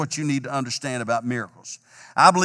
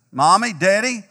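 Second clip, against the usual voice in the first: put-on child calling out; 5 semitones higher, 4 dB louder than usual. Child calling from his room.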